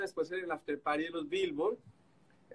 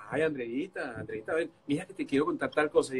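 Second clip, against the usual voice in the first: coaxing; 3 semitones lower than usual. Retold or imitated. Coaxing a sulking Andreita.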